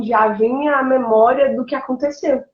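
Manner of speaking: usual speaking voice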